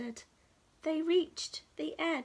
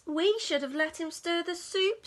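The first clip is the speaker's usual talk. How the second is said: sniffling; 4 semitones higher, 3 dB louder than usual. Acted. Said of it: "sniffed the squirrel".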